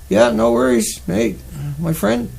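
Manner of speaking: light mock Australian accent; a casual stab at an Australian accent. Joking to the stream chat in a lightly put-on Australian accent. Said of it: "My Australian accent".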